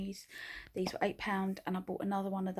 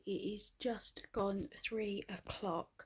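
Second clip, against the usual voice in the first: hushed slow whisper; whispered vlog update; 6 dB quieter, much slower than usual. Real, not acted. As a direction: whisper so no one wakes.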